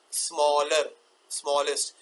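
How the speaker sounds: स्मॉलर, स्मॉलेस्ट stretched into two beats; two sounds. Shown as a demonstration. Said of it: "जो एक से दो sound हो सके". (स्मॉलर, स्मॉलेस्ट को दो साउंड में खींचकर)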